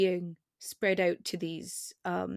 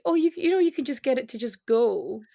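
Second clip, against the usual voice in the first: quoted commenter; 3 semitones higher, 4 dB louder than usual. Retold or imitated. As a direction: lightly mimic a helpful commenter. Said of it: "somebody was like".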